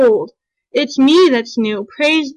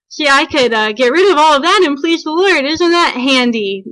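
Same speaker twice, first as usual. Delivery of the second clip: lightly sarcastic, with a slowed final question. Real, not acted. Woman confessing her old excuse for dropping Christmas, sarcastic. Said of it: "Please note the sarcasm".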